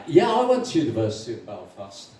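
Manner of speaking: understated matching reply; lightly voiced agreement. Second Irishman agreeing with the first, understated.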